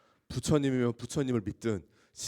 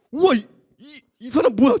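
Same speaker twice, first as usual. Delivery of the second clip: high, loud stunned wow; astonished outburst; amazed exclaim; 12 semitones higher, 11 dB louder than usual. Retold or imitated. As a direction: gasp in disbelief at this man. Stunned by the man's calm faith.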